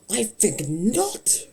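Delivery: slow, drawn-out haughty refusal; dramatic imitation. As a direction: drag out each word like a snooty villain. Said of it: "Dude really hit the speak not".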